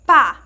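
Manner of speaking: pá with a strong, open "á"; open vowel. Shown as a demonstration. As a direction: say pá loud and wide open. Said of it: "tem um som mais aberto". (pá com "á" forte e aberto)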